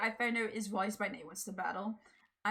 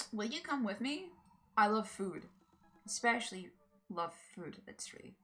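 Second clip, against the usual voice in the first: put-on Valley Girl voice. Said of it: "Valley Girl voice".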